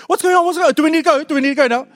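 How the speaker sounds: mock-frantic friend in the background; imitating anxious friend. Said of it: "in the background like".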